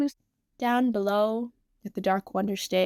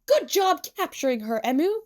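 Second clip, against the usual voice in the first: mildly raised, higher cheer; shouted praise; 6 semitones higher than usual. A narrator's reading. Tsukasa congratulating Emu on the capture, mild shout. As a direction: call out praise with a higher lift. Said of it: "Tsukasa shouts".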